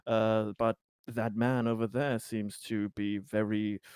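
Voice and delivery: lightly voiced persuader, swinging pitch on key words; smooth-talk them into it, in light character; a hint of a reassuring smooth talker; smooth-talking politician. In character as Conrad.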